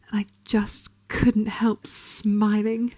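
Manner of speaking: very slow, savouring each word; slow relish. Acted. Hunter recalling the butcher's knives, slowly relishing it. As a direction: draw it out with a secret smile.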